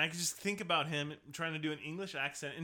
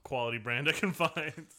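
laughing whisper; 5 dB louder than usual. Real, not acted. Laughing mid-sentence.

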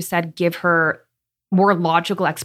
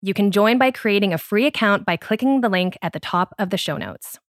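scripted host announcement; podcast promo read. Real, not acted. Host interrupting the episode to invite listeners, promo read.

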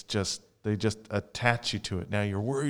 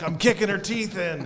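laughing; 10 semitones higher, 4 dB louder than usual. Retold or imitated. Retelling own boast over cribbage.

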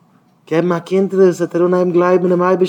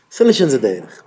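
acted objection; 4 semitones lower than usual. Acted objection, then challenged.

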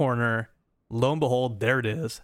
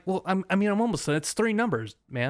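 mock whiny protest; 6 semitones higher, faster than usual. Pleading with officer, retold.

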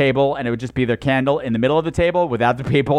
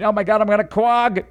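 mock girly; 5 semitones higher than usual. Comic mocking a Long Island girl, squealing.

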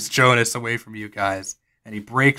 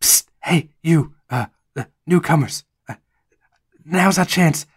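sneaky Jonas; 3 semitones higher than usual. Acted. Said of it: "Jonas says".

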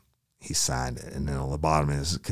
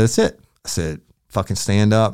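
higher, much louder angry command; angry shout; 7 semitones higher, 9 dB louder than usual. Retold or imitated. Officer ordering suspect to stand, angry shout. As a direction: bark it like a fed-up cop.

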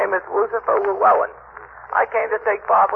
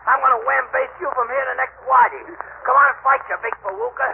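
pugnacious; 4 semitones higher than usual. Acted. Challenging Gildersleeve to fight.

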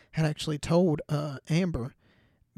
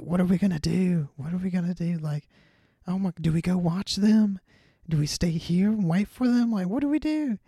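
mock panic; 4 semitones higher than usual. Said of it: "they're just panicking".

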